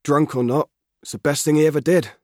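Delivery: a keen lad pleading for his father; lightly voiced country boy, earnest; young Albert. Albert defends the purchase.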